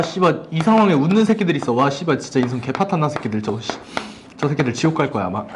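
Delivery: low grumbling curses; cursing under breath. Real, not acted. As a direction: mutter curses at them softly. Grumbling at laughing students. (투덜대며 욕하듯)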